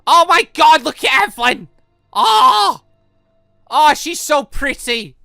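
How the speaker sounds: normal talking voice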